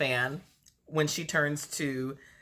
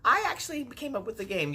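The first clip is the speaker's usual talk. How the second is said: high, laughing imitation of a proud castmate; mock proud claim; 8 semitones higher than usual. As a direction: chirp it like taking credit. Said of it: "is like".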